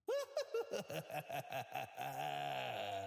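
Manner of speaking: soft, low quavering sound trailing on; long quiet wobble of the voice; wavering noise. Real, not acted. Wondering what it will do today, soft quavering noise.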